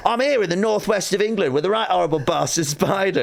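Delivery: put-on high, brisk presenter link in Northwest English accent; own Northwest accent. Comedian replaying his retake to camera, own Northwest accent. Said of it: "I think you do your own accent".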